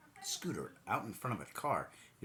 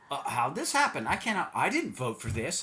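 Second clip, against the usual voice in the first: mock whiny voter; 5 semitones higher, 7 dB louder than usual.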